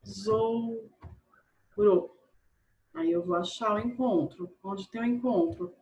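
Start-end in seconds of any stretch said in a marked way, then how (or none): 0.0-0.9 "Tesouro" split into drawn-out syllables with gaps. Shown as a demonstration. Teacher showing pupils the division, "Tesouro" said syllable by syllable. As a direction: pause after each syllable of "Tesouro". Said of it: "separem a sílaba".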